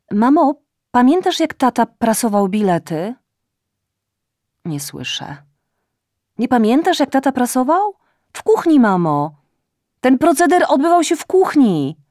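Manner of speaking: put-on loud, high drunken call to mother; tipsy shouting into phone. A narrator's reading. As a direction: shout down a bad phone line, a bit drunk. Drunk daughter calls mother on phone. (córka woła przez telefon do matki, podpita i głośna)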